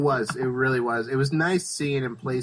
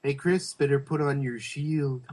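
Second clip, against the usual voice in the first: put-on terrible Australian accent. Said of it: "That was a terrible, uh, Australian, uh, Marcy impression".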